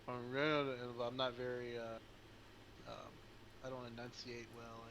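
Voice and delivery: talking through a mouthful of food; mouth full. Pretend. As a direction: mumble around a bite, slowly. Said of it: "so I have my mouth full and I'm".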